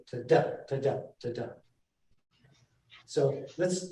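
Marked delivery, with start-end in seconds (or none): 0.1-1.5 each DA stressed after a light "to"; lilting to-DA, to-DA rhythm, low; iambic beat. Shown as a demonstration. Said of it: "then it goes back to the".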